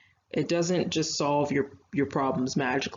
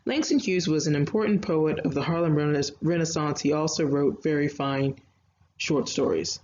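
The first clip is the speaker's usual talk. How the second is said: run-on reading. Shown as a demonstration. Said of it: "if I read that as it actually looks".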